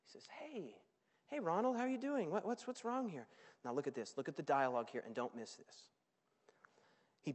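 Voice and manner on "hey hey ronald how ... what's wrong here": soft, coaxing; gentle father. Acted. Father stepping outside to his angry son, gentle. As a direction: approach him softly.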